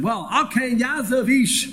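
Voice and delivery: a wife calmly asking her husband; reasonable wife. Retold or imitated. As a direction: gently coax the husband, slowing on the last words. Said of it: "She could have said".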